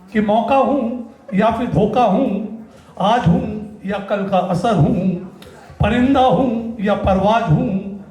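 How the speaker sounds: slow, drawn-out verse with pauses; deliberate spoken-word cadence; poetry recitation. Acted. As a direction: linger on each phrase like a stage poet. Recites his poem on stage.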